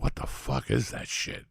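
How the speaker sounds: hushed, drawn-out retold reaction; stunned disbelief. Recalling reading the text about a singer, hushed disbelief. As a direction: relive it softly, slowly, half under the breath.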